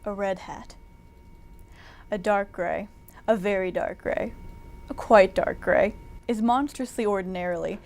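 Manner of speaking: measured recital with long pauses; poetry reading. Acted. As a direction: intone each short phrase as solemn verse. Mock-pretentious poetry reading.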